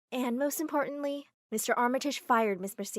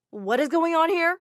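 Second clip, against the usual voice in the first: shocked demand; 6 semitones higher, 10 dB louder than usual. Acted. Gavin shocked at fiancé.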